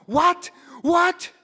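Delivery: high, loud startled yelp; panicked yell. Retold or imitated. Father yelling from inside the apartment, high panicked shout. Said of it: "yelling in a panic as well".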